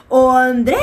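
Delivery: loud call at the gate, stretching the DRE in "Andresa". Shown as a demonstration. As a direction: shout the name as if calling someone out of the house. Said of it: "você chega e fala assim".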